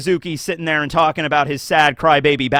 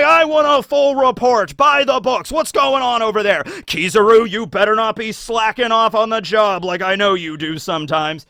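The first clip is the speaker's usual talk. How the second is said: bossy demand; 4 semitones higher than usual. Retold or imitated. Akainu demands a report.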